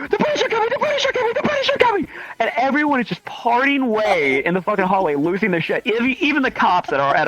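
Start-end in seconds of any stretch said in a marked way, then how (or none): 0.1-2.1 high shrill-free mock battle cry, very high pitch; screaming. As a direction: yell it like a town crier raising alarm.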